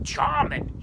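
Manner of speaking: high, loud sneer on the word; scornful farmer. Acted. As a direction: spit the word out in disgust. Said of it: "he would say".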